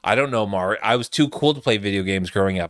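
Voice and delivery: lightly voiced clueless executive, low-pitched; aloof executive. Host imitating boardroom people too cool for games, aloof.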